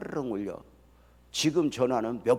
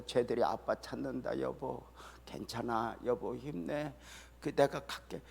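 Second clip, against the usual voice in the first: weak wife's voice; 3 semitones lower, 10 dB quieter than usual. Retold or imitated. Sick wife voiced to husband.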